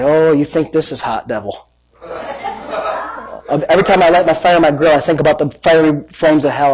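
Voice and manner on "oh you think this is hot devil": low, understated needling; taunting the devil. Acted. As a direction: needle him quietly and coolly. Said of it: "I'll say".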